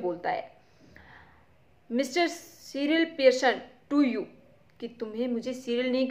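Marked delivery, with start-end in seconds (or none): 1.9-4.2 sulky, glowering. Acted. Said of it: "sulky and glowering".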